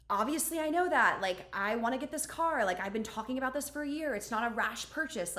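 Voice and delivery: retorting with an edge, a bit put out; tone and attitude. Retold or imitated. Wife snapping back at her husband on the call, with attitude. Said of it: "giving him a little bit more tone and attitude".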